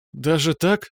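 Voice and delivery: shy giggle. Acted. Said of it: "стыдливо хихикнула девушка".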